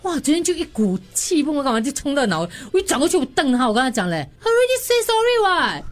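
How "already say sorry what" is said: higher, sharp angry comeback; angry retort. Retold or imitated. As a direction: snap back at the old man. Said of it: "我很大声嘞". (生气地大声顶回去)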